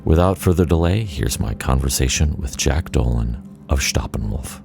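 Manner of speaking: measured, polished host read; scripted podcast intro. Acted. Host welcomes listeners to Ambient Discourses, scripted intro read. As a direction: introduce the show from a prepared script.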